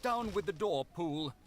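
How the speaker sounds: high, loud order; commanding the butler; urgent command. A narrator's reading. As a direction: shout the order to break in. Ordering the door broken.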